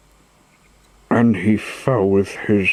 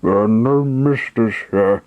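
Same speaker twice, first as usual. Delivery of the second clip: harsh reply. Acted. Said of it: "the showman answered harshly".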